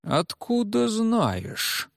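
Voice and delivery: high, slow, drawn-out suspicious question. Acted. The officer narrows his eyes at Redges and drawls the question. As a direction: squint and draw it out with suspicion. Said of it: "прищурился он".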